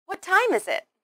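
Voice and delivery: high on "What time", falling away on "is it"; falling intonation. Shown as a demonstration. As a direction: stress "What" and "time", then let "is it" drop. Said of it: "use a falling intonation at the end".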